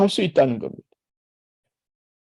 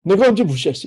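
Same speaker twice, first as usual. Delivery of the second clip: defensive retort; 2 semitones higher, 5 dB louder than usual. Retold or imitated. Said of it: "그럴 때 어떻게 합니까".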